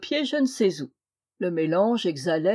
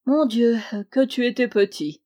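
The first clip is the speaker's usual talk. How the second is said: lifted, fond exclamation; tenderly moved; 3 semitones higher, 4 dB louder than usual. A narrator's reading. Uncle remembering his nephew as a small child, tenderly moved. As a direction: sigh it out fondly at the memory. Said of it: "attendri par ses souvenirs".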